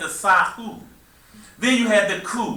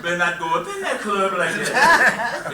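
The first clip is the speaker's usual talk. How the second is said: inner voice warning; 2 semitones higher than usual. Retold or imitated. Conscience scolding a young man about the club, laughing mock warning. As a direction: warn yourself like a stern inner voice, half laughing. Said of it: "You hear that voice saying".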